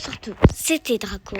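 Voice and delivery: name stretched out long at the end; unusual sign-off. Shown as a demonstration. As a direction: hold the last vowel of Draco in a long sign-off. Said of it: "C'est pas mon intro de base".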